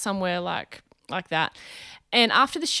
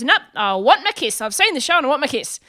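retold insistent man, higher and quick; demanding; 4 semitones higher, 5 dB louder than usual. Man insists to comedian after the show, demanding. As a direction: imitate someone stubbornly staking a claim. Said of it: "like an uncle kind of demanding a kiss".

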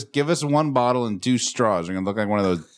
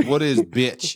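uptalk; 2 semitones higher, much slower than usual. Shown as a demonstration. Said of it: "you got that inflection".

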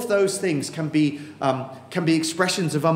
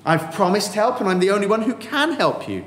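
higher, insistent call to turn back; voice of God; 5 semitones higher than usual. Acted. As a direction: urge them firmly to come to him. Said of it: "But God says".

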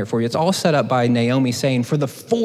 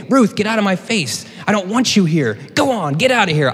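mock dismissal; 6 semitones higher than usual. Naomi telling Ruth to get out, hammed-up shooing. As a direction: wave Ruth off like a nuisance. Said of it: "excuse me, Naomi saying".

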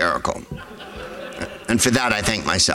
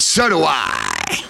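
slow smug reply; much slower than usual. Retold or imitated. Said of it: "And he went".

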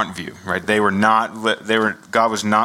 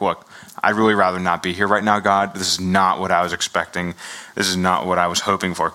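grumbling; 4 semitones lower than usual. Retold or imitated. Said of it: "they're just, like, grumbling".

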